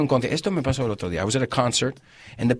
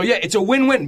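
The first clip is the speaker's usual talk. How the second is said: sincere; 8 semitones higher, 4 dB louder than usual. Shown as a demonstration. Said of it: "if you say it sincerely".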